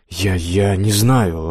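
slow, halting frightened answer; squeezed out. Acted. Blacksmith answering menacing Death, barely squeezing it out. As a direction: force the words out, scared. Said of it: "выдавил из себя Василий".

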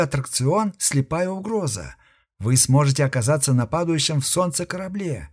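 pushy fairground ad pitch. Acted. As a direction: hype it like a sideshow barker. Robot announces attraction advertisement.

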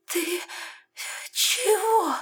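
very high, frightened breath; hoarse gasp. A narrator's reading. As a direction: gasp it out in shock. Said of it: "хрипло выдохнула девушка". (хриплый испуганный выдох)

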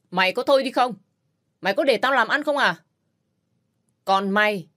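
father-in-law silences the quarrel; angry scolding. Acted.

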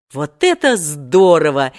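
loud, delighted cry; two boys thrilled together; joyful exclamation. A narrator's reading. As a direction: cheer it out. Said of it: "воскликнули в один голос".

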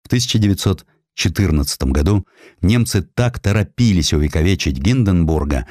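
usual speaking voice

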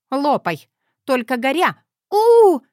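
burnt mouth, rising to a high, loud howl. Acted. Zoya scalding her mouth on the soup, a yelping howl. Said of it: "взвыла Зоя".

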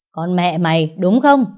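jab the last question at her like an accusation; angry scolding. Acted. Grandma scolding her granddaughter, rising to an angry yell.

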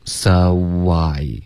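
"so I" slow, easy w glide between words; relaxed glide. Shown as a demonstration. Teacher easing a student's forced linking, relaxed. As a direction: let "so I" link loosely, unforced. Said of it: "放松".

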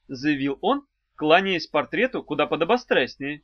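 usual speaking voice

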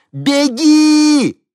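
very high, very loud scream; full scream. A narrator's reading. Henni screams to the woman from the helicopter, full scream. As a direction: shout with all your might. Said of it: "Хенни яростно махала рукой".

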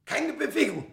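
high, commanding order; sharp command. Acted. The mummy man catching Smith in the dark, sharp command. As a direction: freeze him with a command.

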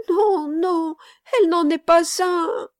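put-on high, loud little boy's exclamation; voiced child's high, insistent cry. A narrator's reading. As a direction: protest as an upset small boy. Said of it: "s'écria l'enfant".

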